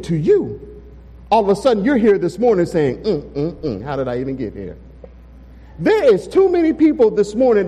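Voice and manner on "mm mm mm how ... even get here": soft, low, amazed murmur; hushed wonder. Retold or imitated. Churchgoer marveling under their breath at surviving the week. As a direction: murmur it in quiet disbelief.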